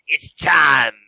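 put-on loud French-accented proclamation; booming professor's outburst; theatrical shout. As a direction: declare it grandly, drawing out the last word. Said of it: "he rounds on the audience quickly".

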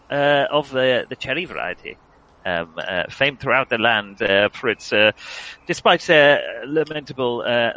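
lightly pompous theatrical speech; grand, flowery stage delivery; hammy stage actor. Acted.

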